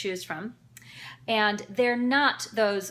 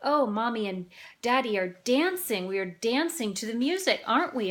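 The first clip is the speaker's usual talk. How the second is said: put-on parent talking to toddler. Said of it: "and we say".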